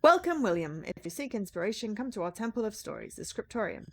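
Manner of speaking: letter read aloud. Acted. Monks' letter welcoming the writer, read out formally. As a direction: proclaim the invitation as written.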